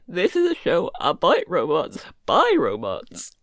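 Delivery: deep slow robotic voice. Pretend. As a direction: drop low and slow like a robot. Podcast intro in robot voice.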